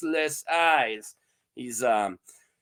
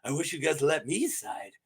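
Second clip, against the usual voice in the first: softer mock innocent Peter; 9 dB quieter than usual. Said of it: "Peter's like".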